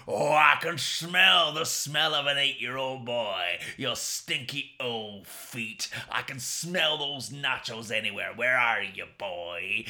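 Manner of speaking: low, slow creepy monster voice; sniffing monster. Acted. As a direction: sniff out the boy hungrily. Blind monster sniffing for boy.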